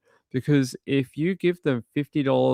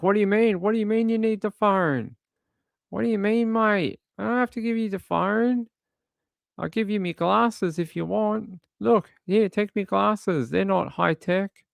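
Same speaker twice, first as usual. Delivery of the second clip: high, frantic mock protest from the man being searched; panicked traveller; 9 semitones higher than usual. Man stopped at the airport protesting to officers, high frantic mock panic. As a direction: play the cornered guy, pitch jumping up in disbelief. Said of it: "now he's like".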